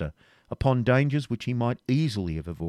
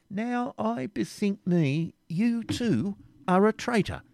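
smiling teasing; 11 semitones higher, slower than usual. A narrator's reading.

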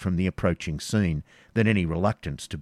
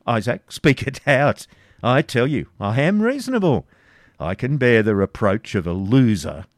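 louder, taunting; mocking Baron; 3 dB louder than usual. Front de Boeuf mockingly finishing Isaac's sentence. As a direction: goad him to speak.

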